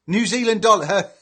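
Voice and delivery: delighted pun catch; excited realization. Real, not acted. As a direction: say it like you just got the joke. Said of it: "Get it now".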